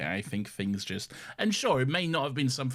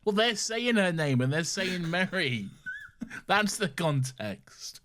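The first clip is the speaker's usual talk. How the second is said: insistent correction; 8 semitones higher, slower than usual. Real, not acted. Insisting in playful argument over name.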